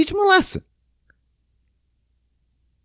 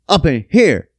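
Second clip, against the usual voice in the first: mock thrill-ride excitement; 6 semitones higher, 7 dB louder than usual. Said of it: "You're like".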